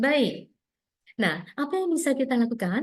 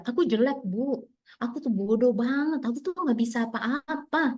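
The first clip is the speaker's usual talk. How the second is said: put-on slightly raised, self-deprecating child's voice; lightly acted helpless child; 3 semitones higher than usual. Child confessing worthlessness to mother, mildly acted helplessness. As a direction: play a child putting themselves down. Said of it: "anak itu merasa nggak berdaya".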